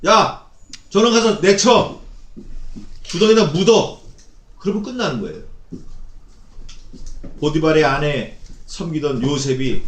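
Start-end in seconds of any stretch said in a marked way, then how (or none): 0.1-4.0 raised, commanding shout of a master; an angry master sentencing his slave; harsh master's order. Acted. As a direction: bark the order to throw him out.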